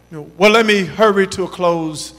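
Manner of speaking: ordinary talk, nothing marked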